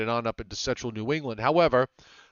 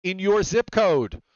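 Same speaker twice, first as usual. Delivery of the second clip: sponsor read; 4 semitones higher than usual. Acted. Reads the weather system plug.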